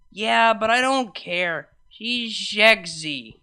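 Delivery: put-on slow, lazy drunk girlfriend; tipsy drawl. Vinyl muffled on voicemail, slow tipsy insistence. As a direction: draw it out slowly like a tipsy grin.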